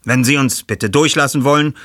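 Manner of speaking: bittend. Acted. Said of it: "bat Bob".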